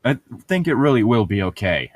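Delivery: Alice reading voice. A narrator's reading. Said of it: "Alice said".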